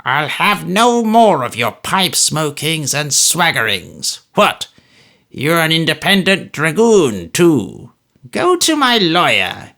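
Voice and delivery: put-on loud, high, slow scolding old man; Smallweed scolding the dragoon; raging old miser. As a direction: drive them out with spite. Narrator voices old Smallweed raging.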